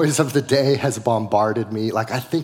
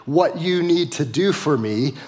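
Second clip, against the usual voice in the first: demanding sheep; 4 semitones higher than usual. Retold or imitated. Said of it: "we grab that rod and we say".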